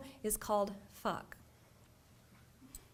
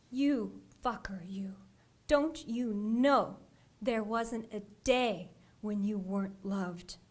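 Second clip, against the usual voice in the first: tender. Retold or imitated. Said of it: "but said tender".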